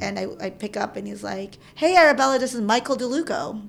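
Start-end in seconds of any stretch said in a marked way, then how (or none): 1.7-3.6 imitated caller, loud high hello falling back to normal; retold hearty hello; upbeat phone greeting. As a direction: open big, like a friendly caller introducing himself.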